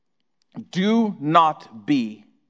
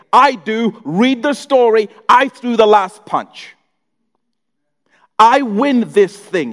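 triumphant Jesus; 3 semitones higher, 3 dB louder than usual. Acted.

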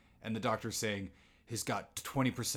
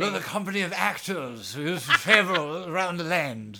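high, loud theatrical put-on voice; hammed-up thespian; 8 semitones higher, 8 dB louder than usual. Riffing on a company of actors, hammed-up thespian. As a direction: proclaim it grandly, with a laugh in it.

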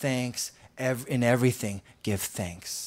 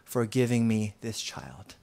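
grateful prayer; 5 semitones lower than usual. Retold or imitated. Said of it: "what if we just said".

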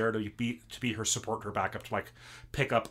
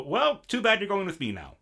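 Loki's voice; 9 semitones higher, 3 dB louder than usual. Retold or imitated.

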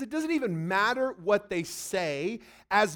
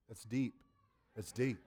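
mock awe; 11 semitones lower, 13 dB quieter than usual. Mock awed reaction.

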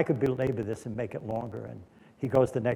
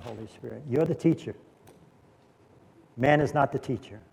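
closing prayer; 3 semitones lower than usual. Real, not acted. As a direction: lead the room gently in prayer, phrases dropping away. Closes the sermon in prayer.

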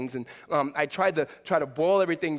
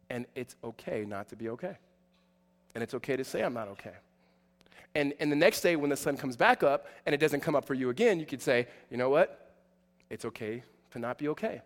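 gentle reassurance; 4 semitones lower, 3 dB quieter than usual. Real, not acted. Tender close of the point.

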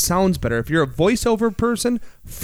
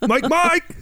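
playful call; 11 semitones higher than usual. Pretend. Calling out playfully in high voice.

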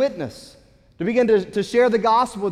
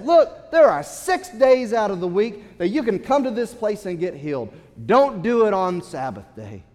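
mock indignant ruler scolding; a touch of self-righteous scolding; 4 dB louder than usual. Synagogue ruler scolds the crowd, mildly indignant. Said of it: "stands up with indignation, self-righteousness".

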